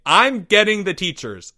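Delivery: put-on a touch of boyish alarm; worried schoolboy. Charlie stepping away as things escalate, mildly worried boy.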